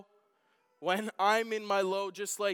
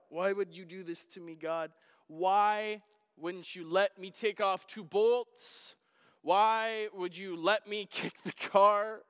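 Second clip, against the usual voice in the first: mad at God; 3 dB louder than usual. Retold or imitated. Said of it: "I'm mad at God".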